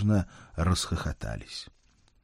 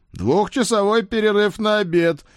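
giggling; 13 semitones higher, 6 dB louder than usual. Acted. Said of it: "хихикая".

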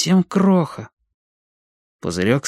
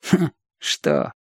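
high, breath-led hm; wary snort; 7 semitones higher than usual. A narrator's reading. Know-it-all boy looks round warily before answering, snorting. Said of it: "опасливо огляделся и хмыкнул".

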